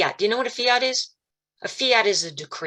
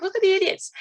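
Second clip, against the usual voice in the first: mocking sneer; 12 semitones higher than usual. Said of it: "they throw it in our faces, like".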